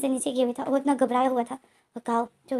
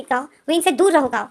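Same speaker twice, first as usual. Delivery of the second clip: louder retold scream at Kao; 3 semitones higher, 8 dB louder than usual. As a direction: shout the warning once more. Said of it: "लेनजेन जो चीख कर बोलता है". (लेनजेन फिर चीखकर काओ को रोकता है)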